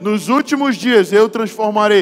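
fiery preaching. Acted. Pastor preaches to the congregation about men crying, full force. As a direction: preach it out to the whole church.

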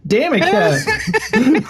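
laughing through the words; cracking up, high and slow. Real, not acted. Laughing at own failed joke.

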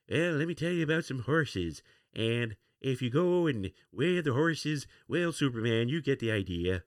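lightly voiced folksy president telling a story; Ronald Reagan impression. Presidential storyteller to Superman, a hint of Reagan. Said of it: "especially in Ronald Reagan's accent".

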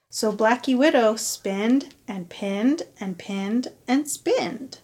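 put-on reading to children. A narrator's reading. Reading picture book aloud.

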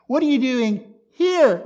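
HERE punched high and loud; stress on HERE. Shown as a demonstration. Preacher contrasting here with there, stress on HERE. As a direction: hit "here" hard with a falling pitch. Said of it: "Not there".

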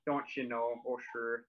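lightly demonstrated Minnesota accent. Shown as a demonstration. Fargo local demonstrating the movie's accent, light Minnesota accent. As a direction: show a touch of Minnesota accent. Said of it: "that accent is a Minnesota accent".

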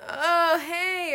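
perky mock hello; bright greeting. Acting out a casual greeting.

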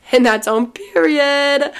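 slow line, voice cracking. Real, not acted. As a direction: let the voice crack on period. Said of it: "Wow, my voice just cracked".

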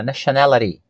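"nationality" in American English, the T softened to a flap; American-accented "nationality" with a tapped T; American pronunciation. Shown as a demonstration. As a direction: say "nationality" the American way, ending like "-luh-dee". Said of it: "pra você pegar a pronúncia americana".

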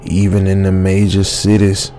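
put-on grave old hunter. Old man warning the narrator about vampires, slow and grave. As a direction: lay the warning down slowly and darkly. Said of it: "the old man said".

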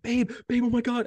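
high-pitched breathless-news phone call; retold shaking excitement. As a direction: re-enact calling your wife, overexcited. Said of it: "I'm, like, shaking".

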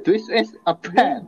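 put-on "This is a pen" drawn out slowly in a Japanese-English accent; slow mock accent. Friend imitates the Japanese video, slow mock accent.

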